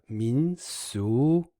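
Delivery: 民俗 rising on both syllables; second tone twice. Shown as a demonstration. Teacher gives an example of paired second tones, 民俗 rising twice. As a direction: lift each syllable of 民俗 like a question. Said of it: "it's second, second".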